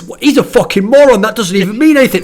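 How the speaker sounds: mock disgusted fan; scornful viewer. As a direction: scoff like a fan at a dumb remark. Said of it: "everyone thinks".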